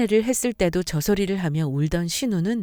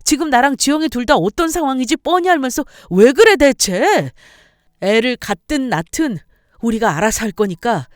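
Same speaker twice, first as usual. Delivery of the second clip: loud, higher angry husband; furious shout; 5 semitones higher, 8 dB louder than usual. Acted. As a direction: throw them out at the top of his voice. Husband yells at mother and sister. (폭발하듯 크게 소리치며)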